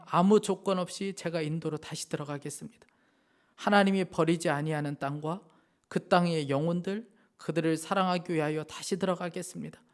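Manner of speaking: earnest read-aloud of a missionary's story; testimony reading. Acted. Preacher reading a missionary's testimony to the congregation, earnest.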